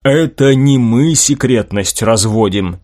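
slow, even-pitched patient repeat. Acted. José answering his indignant protégé about secrecy, patient. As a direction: explain patiently, taking your time. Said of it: "терпеливо повторил Хосе".

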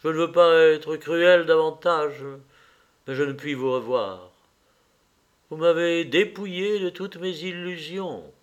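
composed, clearly projected dismissal; calm, clear voice. Acted. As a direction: end it firmly, keeping composed. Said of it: "d'une calme voix claire". (voix calme, claire et ferme)

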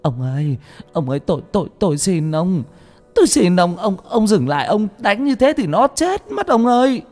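mother pleading with her husband to stop the beating; desperate wailing plea. Acted. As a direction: beg him to stop, voice climbing. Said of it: "bà vợ gào lên".

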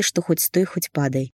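usual speaking voice

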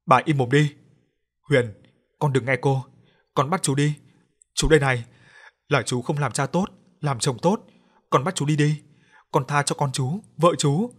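loud, anguished shout; the father shouts down his wife and begs the ghost. Acted. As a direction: bark at the wife, then plead. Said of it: "Ông quát".

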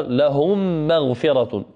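لهم مغفرة slowed, the doubled mim held with a nasal hum; slow demo recitation. Shown as a demonstration. Teacher models the example for students. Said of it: "مثال آخر".

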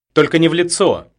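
high, loud frightened plea; pleading. A narrator's reading. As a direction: beg him to spare her face. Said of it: "взмолилась Петелина". (испуганная мольба)

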